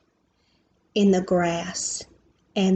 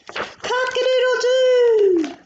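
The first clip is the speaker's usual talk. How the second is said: high stretched rooster crow, slow and falling; 4 dB louder, slower than usual. Acted. Reading to child, crowing like the rooster.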